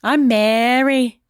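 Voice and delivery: slow, drawn-out Minnesota vowels; lightly held Minnesota accent. Acted. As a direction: introduce yourself in a Minnesota accent. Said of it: "That accent just went".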